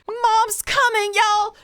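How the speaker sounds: rushing to rescue friends, shouting; mock battle cry. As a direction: charge in like a protective mom.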